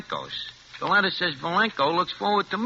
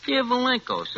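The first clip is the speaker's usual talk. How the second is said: higher-pitched letter salutation; reciting a letter; 9 semitones higher than usual. Retold or imitated. Telling Harry what he wrote, in a higher recital voice. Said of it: "I write a letter".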